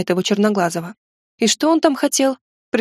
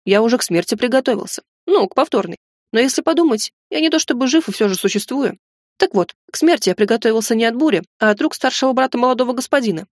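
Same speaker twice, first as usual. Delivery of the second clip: chattering goblin. Acted. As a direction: babble on like a nervous servant. Goblin servant rambling.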